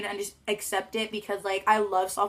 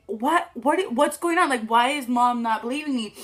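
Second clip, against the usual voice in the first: put-on confused kid; 3 semitones higher, 5 dB louder than usual. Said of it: "I'm right here like".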